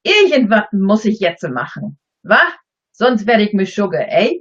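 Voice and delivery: Berlin German accent; broad Berlin dialect with wa and eh. Shown as a demonstration. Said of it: "speak in the Berlin accent".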